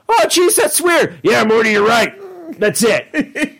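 audition a tiny Morty part; Morty-style voice. Shown as a demonstration. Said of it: "me doing, like, something like".

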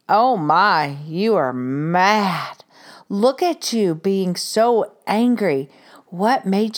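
put-on calm the toddler down gently; soothing toddler talk. Shown as a demonstration. Mother calming a toddler mid-tantrum, slow and soothing.

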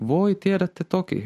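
gently knowing, smile in the voice; smiling. A narrator's reading.

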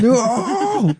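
높은 가성으로 비꼬며 외치는 "No!"처럼 날카롭게; 가성으로 찢어지게 "No!"라고 외친다; squeaky falsetto mockery. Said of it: "That's not what I sound like".

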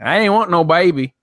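mock southern hick complaint; lightly voiced southern hick accent. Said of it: "the southern hick".

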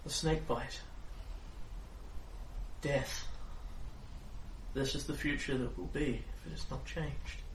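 soft urgent prophecy; fortune teller. Acted. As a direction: warn them gravely to go. Fortune teller reading continues.

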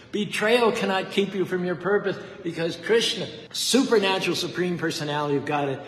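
fiery sermon climax; full-force preaching. Acted.

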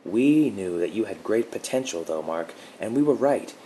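a hint of a calm protector reassuring him; gentle guardian woman. A narrator's reading. Guardian's cool revelation.

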